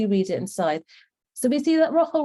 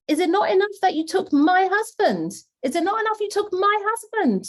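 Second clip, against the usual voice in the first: higher, incredulous reproach; indignant Leah; 8 semitones higher than usual. Retold or imitated. Teacher voicing Leah's reproach to Rachel, incredulous and higher. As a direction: throw the words back in disbelief, pitched higher. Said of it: "Can you believe, Rachel said".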